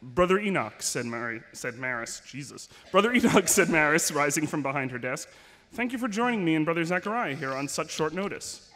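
measured, serious reading-aloud voice; story narration. Acted. Author reads the last pages to fans, gravely. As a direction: read the grim scene steadily to the crowd.

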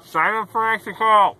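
loud, falling command; loud announcement. Shown as a demonstration. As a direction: call out the slogan loud. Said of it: "This is an announcement video".

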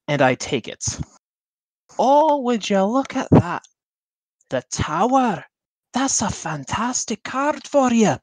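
lightly voiced smooth showman fortune teller. Player voices a fortune teller charming the princess's rival, lightly theatrical. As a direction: pitch your fate like a travelling seer.

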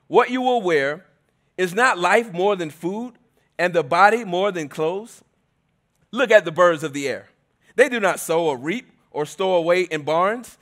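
lightly formal Bible reading; scripture reading. Acted. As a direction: read it out to the congregation. Reads scripture aloud.

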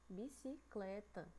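bicicleta slowly, CLE lengthened; stress on penultimate syllable. Shown as a demonstration. Teacher repeating for pupils, bicicleta slow with long CLE. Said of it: "Qual é a que tá sendo mais demoradinha".

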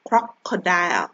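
"Crocodile" slowly, broken into its parts; slow, segmented "Crocodile" for learners to memorise. Shown as a demonstration. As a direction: say "Crocodile" one chunk at a time. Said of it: "ทีละส่วนของคำศัพท์".

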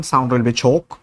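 British accent ch. Shown as a demonstration. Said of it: "if you go for the British accent".

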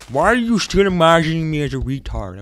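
high put-on voice as the game; game's voice. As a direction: speak as the game itself. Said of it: "you're making this voice".

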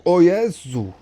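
high, loud shocked gasp; shocked cry. Real, not acted. Crash exclamation.

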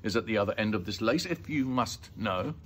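mildly sharp explanation; slightly tart. Acted. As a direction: explain with a touch of indignation. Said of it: "Missus Lambchop said sharply".

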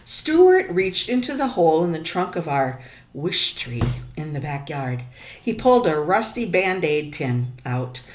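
put-on reading a picture book aloud to kids; story narration. A narrator's reading. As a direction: tell the story to the class, expressive. Teacher reads picture book aloud.

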